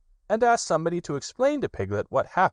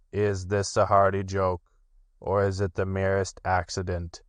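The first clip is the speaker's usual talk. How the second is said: gloomy Eeyore. Acted. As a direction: sulk it out as Eeyore. Eeyore answers Pooh.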